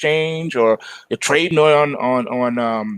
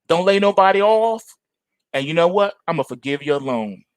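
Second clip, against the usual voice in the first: smooth-talking government. Acted. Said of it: "'Cause they say".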